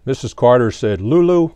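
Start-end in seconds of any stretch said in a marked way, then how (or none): 1.0-1.5 Lulu called out higher and louder; teacher calling Lulu higher and louder. Acted. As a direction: lift Lulu up high and loud, calling her. Missus Carter addresses Lulu.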